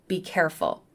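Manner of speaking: calm, even caution. Shown as a demonstration. Teacher introducing an example sentence to students, calm. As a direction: say it calmly, like a simple statement. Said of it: "I say it in a calm voice".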